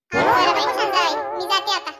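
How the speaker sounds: a strained laughing goodbye; forced laugh. Acted.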